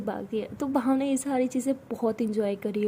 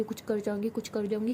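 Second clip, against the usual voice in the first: mocking her catchphrase; 5 dB quieter than usual. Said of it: "बात बात पे कहती".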